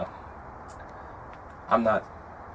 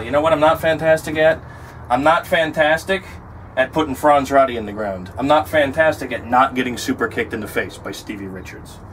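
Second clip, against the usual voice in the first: loud, bitter emphasis on not; frustrated outburst; 3 semitones higher, 4 dB louder than usual. Real, not acted. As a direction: vent the frustration, punching not. Frustrated outburst about career.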